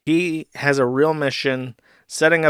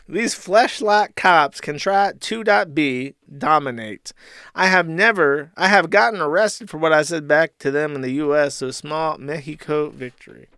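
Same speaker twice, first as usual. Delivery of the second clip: mock rant; 2 semitones higher than usual. Reading Ralph's tweet.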